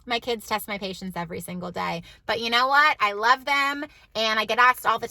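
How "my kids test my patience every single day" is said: softer, lower, a dry confession; quiet flat admission. Shown as a demonstration. Mom quietly admits to viewers kids test her daily, deadpan and low. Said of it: "We'll say that".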